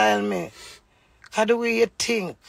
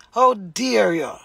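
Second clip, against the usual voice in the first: loud, slow indignant challenge; outraged; 2 semitones higher, 6 dB louder, slower than usual. Real, not acted. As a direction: lean into each word, offended. Outraged at husband.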